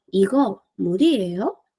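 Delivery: Igo, murieo with a rise on the last syllable of murieo; rising question intonation; question tune. Shown as a demonstration. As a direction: ask it, lifting the end of murieo. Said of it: "te estás preguntando".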